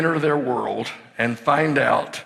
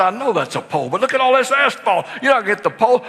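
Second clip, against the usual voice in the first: excited reassurance; 6 semitones higher, much faster than usual. Retold or imitated. Dad reassuring with rising excitement.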